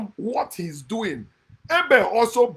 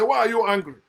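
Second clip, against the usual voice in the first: mocking believers; 5 dB louder, faster than usual. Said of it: "they say".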